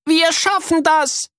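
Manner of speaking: high, slow determined cheer; girl urging her brother on. Acted. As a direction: push through with grit. Miri encourages.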